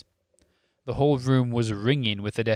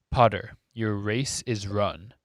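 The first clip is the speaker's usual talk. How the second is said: drawl; slower than usual. Acted. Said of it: "drawled Lucius Malfoy".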